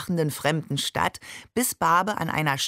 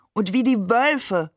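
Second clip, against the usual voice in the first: higher, slightly drawn-out call; 4 semitones higher, 3 dB louder than usual. A narrator's reading. Ali adds wolves to the mock sermon, calling out. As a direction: chime in with a raised voice. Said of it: "rief Ali".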